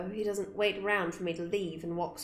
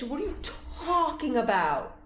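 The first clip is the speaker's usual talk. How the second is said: laughing; 5 semitones higher, slower than usual. Real, not acted.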